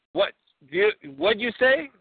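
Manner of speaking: put-on confused Borat, Kazakh accent. Borat answers the host's Georgia question, Kazakh accent.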